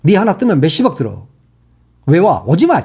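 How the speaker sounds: normal talking voice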